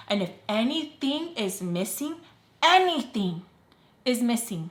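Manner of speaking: drawn-out, pointed "anything"; warning emphasis. Retold or imitated. Woman warning the narrator before checking her room, pointed warning. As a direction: stretch and repeat "anything" as a threat.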